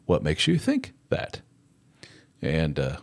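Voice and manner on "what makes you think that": high mock-therapist voice; hammed-up high therapist voice; therapist impression. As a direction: play the chummy therapist up high. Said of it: "they'll be like".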